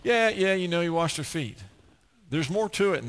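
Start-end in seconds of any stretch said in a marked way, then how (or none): 0.0-1.6 offhand, dismissive, starting higher; glossing over it. Acted. Preacher mimicking people who skim the passage, dismissive. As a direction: brush it off like old news. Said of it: "not to just gloss over this".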